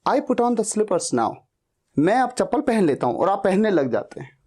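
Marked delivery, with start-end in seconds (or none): 0.1-1.3 very slow, each word laid out; slow demo sentence. Shown as a demonstration. Teacher models the sentence slowly for students. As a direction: spell the sentence out slowly for learners. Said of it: "तो आप बोलेंगे".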